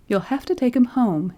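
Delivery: insistent. Acted. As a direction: insist firmly. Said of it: "insisted the nurse".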